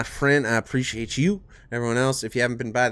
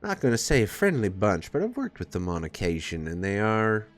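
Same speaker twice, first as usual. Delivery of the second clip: put-on southern accent. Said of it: "stuck in this southern accent".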